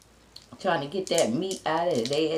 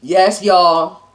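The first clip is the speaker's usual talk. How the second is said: excited yes; 13 dB louder than usual. Real, not acted. Eater delighted with food.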